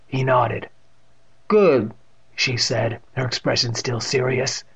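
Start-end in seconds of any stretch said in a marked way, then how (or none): 1.5-1.9 a hint of the deaf great-aunt, louder; lightly voiced emphatic aunt; Catherine. A narrator's reading. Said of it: "with that distinct pronunciation".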